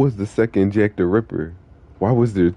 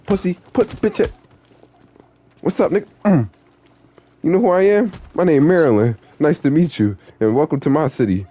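high put-on character voice; 5 semitones higher than usual. Confronting a rival in his city, high cocky voice. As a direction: pitch way up, cocky street character.

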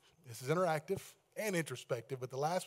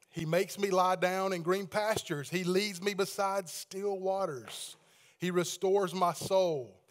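scripture reading. Acted. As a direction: read the psalm out to the whole church. Reads Psalm aloud to congregation.

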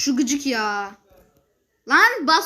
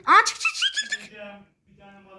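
panicked squeal; slower than usual. Real, not acted. Panicked in game.

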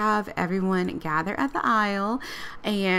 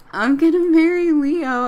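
higher, louder excited bride; acted burst of wedding excitement; 6 semitones higher, 5 dB louder than usual. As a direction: bubble over as the giddy bride. Bride excited about marrying.

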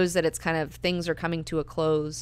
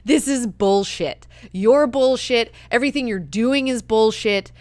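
scornful Alia; 4 semitones higher, 6 dB louder than usual. Retold or imitated. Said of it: "she's just like, always being like".

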